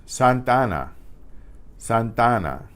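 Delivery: "Santana" with the two A sounds run together; teacher model "Santana" as one joined vowel; "Santana", a single smooth A; vowels merged. Shown as a demonstration. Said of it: "are going to sound like the same vowel".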